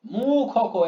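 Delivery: "মুখক" slow, with long "মু"; syllable by syllable. Shown as a demonstration. Teacher counting beats, "মুখক" syllable by syllable. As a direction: stretch "মু", then open "খ" and "ক". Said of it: "প্রত্যেকটা single single উচ্চারণ".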